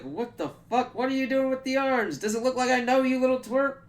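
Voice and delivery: high, squeaky-pitched indignant imitation; mock outraged disbelief. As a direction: demand answers in a hammed-up high voice. Voices Peter confronting the arms.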